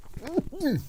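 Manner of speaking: a sharp throat clear before a sneeze. Real, not acted. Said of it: "I'm gonna sneeze".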